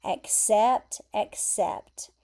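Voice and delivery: "Accept, accept" said alike, first rising, second falling; sound-alike word pair. Shown as a demonstration. English teacher showing two words that sound the same, identical pronunciation. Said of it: "they sound the same".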